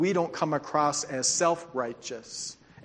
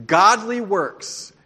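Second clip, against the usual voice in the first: slow preached emphasis; 5 semitones higher, 8 dB louder, much slower than usual. Acted.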